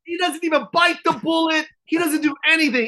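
high-pitched outraged yell; exasperated shout. Real, not acted. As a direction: shout it in disbelief. Exasperated shouting about host.

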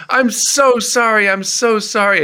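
imitating a frantic, apologetic keyboard player; flustered apology. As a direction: gush sorry like an embarrassed minder. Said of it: "and he goes".

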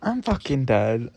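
cracking up mid-sentence; dying of laughter; laughing, can't hold it together. Real, not acted. Cracking up at own story.

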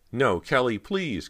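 high, frightened plea; begging. A narrator's reading. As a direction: beg loudly for mercy. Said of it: "Cody begged as the ghost floated nearer".

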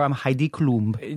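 slow, self-important "I'm Heidi Klum"; grand full-name intro. Shown as a demonstration. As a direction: drawl the full name like a star. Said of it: "Does she say".

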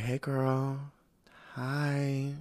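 soft, shy little hello; lightly voiced shy girl easing into the talk; timid greeting. Alicent greeting Rhaenyra timidly, soft shy hello. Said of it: "like, very timid".

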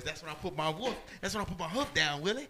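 lightly voiced cartoonish character impression; a hint of a put-on character voice; Elroy. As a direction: put on a slight character voice, pitch lifting toward the end. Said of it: "say it in my Elroy voice".

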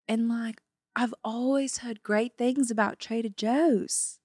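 put-on amateur Australian tourist accent. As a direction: put on a loose Aussie accent. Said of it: "we're Australian tourists".

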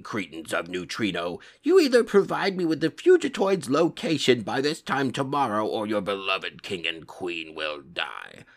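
menacing alien warlord; villain voice. Acted. Krang threatens the king and queen.

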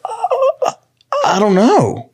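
high, teary mock whimper of a scared kid. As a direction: squeak it out like he's about to cry. Kid answering teacher, retold.

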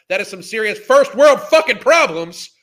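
loud, exasperated rant line; angry outburst. Real, not acted. Ranting at the woman in the clip, loudly exasperated. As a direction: blow up at the absurdity.

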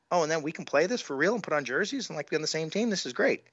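put-on eager kid voice, rising high; excited planning. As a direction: gush like a thrilled kid about the team. Retold childhood excitement about lacrosse.

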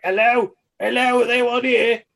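high, sing-song greeting; goofy stranger. Retold or imitated. Stranger walks in the door, high sing-song hello. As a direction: bumble in announcing yourself.

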